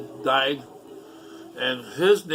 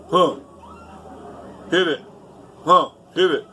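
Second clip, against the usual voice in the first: short, higher, louder prodding; insistent urging; 4 semitones higher, 4 dB louder than usual. Retold or imitated. Big man urging a teenager to smoke, retold insistence. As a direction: imitate a man pushing, each word punched. Imitates man pushing the pipe.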